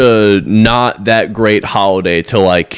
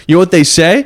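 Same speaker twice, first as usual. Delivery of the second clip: bro impression; 6 semitones higher than usual. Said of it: "And he goes".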